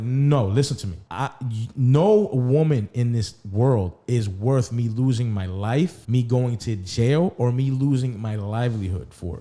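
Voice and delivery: slow, emphatic retold correction; firm insistence. Man retelling how he corrected her misunderstanding, firm insistence. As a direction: spell it out with drawn-out emphasis.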